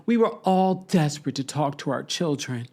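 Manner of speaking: lightly hammed-up plea, mocking her; mocking theatrical quote. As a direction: parody the dramatic line. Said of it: "stop with the theatrics".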